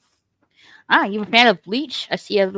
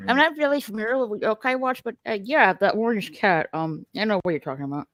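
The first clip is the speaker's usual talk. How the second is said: talking while chewing; eating pretzels. Real, not acted. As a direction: mouth full, crunching pretzels. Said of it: "I'm eating pretzels".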